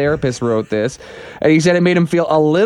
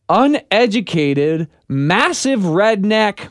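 slow quoted insult; much slower than usual. Retold or imitated.

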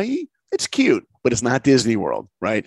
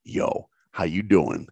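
Michael Jordan impression; 5 semitones lower, slower than usual.

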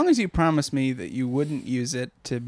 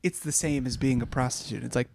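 much softer, nearly whispering; quiet; 6 dB quieter than usual. Real, not acted. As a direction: drop to a hush. Suddenly drops voice.

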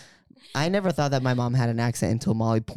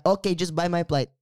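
higher mimicked Filipino English; Filipino accent; 4 semitones higher than usual. Daughter echoes mom about a flight, Filipino accent. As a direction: imitate a Filipino mom, pitched up. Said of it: "she'll go like this".

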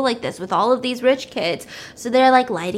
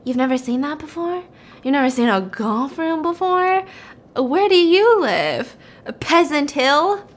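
laying it on thick; 3 semitones higher than usual. Retold or imitated. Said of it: "he's just laying it on thick".

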